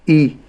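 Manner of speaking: إي with a clear, short kasra; correct kasra on hamza. Shown as a demonstration. Teacher shows the correct إي with a clean kasra. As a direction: say إي cleanly, the hamza fully voiced. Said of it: "لكن أقول".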